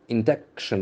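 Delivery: Induction stressed on the middle syllable, in-DUC-tion; second-syllable stress. Shown as a demonstration. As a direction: put the accent on DUC in Induction. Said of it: "the accent falls on the second syllable".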